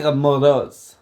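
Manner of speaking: a light Russian accent on Dushkamoros. Shown as a demonstration. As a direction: push the Russian sound on Dushkamoros. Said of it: "No, Russia".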